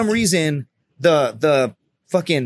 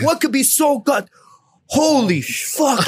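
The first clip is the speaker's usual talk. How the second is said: stunned exclamation; 11 semitones higher, slower than usual. Retold or imitated. Team leader reacts in story.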